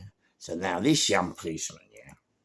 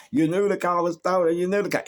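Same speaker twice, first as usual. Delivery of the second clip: accusing shout; 10 semitones higher, 5 dB louder than usual. Retold or imitated. Copper accusing him in van.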